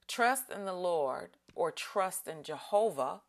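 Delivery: measured, solemn reading of the verse; scripture reading. Acted. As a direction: read it aloud as holy scripture. Reads scripture aloud.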